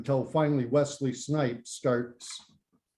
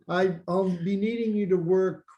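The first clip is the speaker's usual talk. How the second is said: droning film boss; 5 semitones higher than usual. Acted. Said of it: "was always going".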